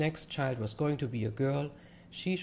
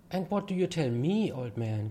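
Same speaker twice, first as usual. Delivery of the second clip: good-humored; 5 semitones higher, 3 dB louder than usual. Acted. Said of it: "obviously good-humored".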